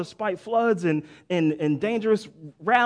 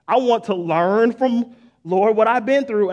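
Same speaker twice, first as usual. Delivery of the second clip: earnest prayer; 6 dB louder than usual. Acted. Praying aloud in sermon.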